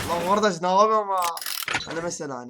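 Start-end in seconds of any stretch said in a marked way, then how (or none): 0.1-1.2 loud mock Ankara dialect; Ankara accent. Shown as a demonstration. YouTuber showing viewers his picked-up Ankara dialect, loud Ankara accent. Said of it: "Ankara şivesi çok iyi konuşabilirim".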